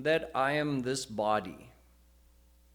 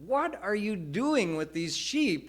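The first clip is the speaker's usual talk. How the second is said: demanding lion; 8 semitones higher, 3 dB louder than usual. Retold or imitated. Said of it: "And he said".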